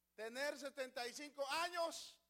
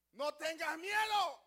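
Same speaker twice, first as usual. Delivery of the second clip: loud, slow command not to fear; strong, slow divine comfort; bold reassurance; 3 semitones higher, 7 dB louder, slower than usual. Acted. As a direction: boom it out as God speaking to Abraham. God comforts Abraham in a strong voice.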